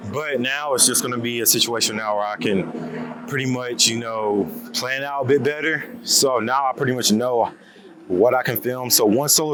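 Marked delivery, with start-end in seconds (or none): 0.1-5.9 quiet and out of breath; talking while still winded. Real, not acted. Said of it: "forgive me if I sound winded".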